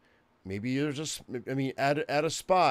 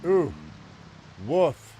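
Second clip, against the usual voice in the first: surprised ooh; 3 dB louder than usual. Real, not acted. Reacting to sparse car lot.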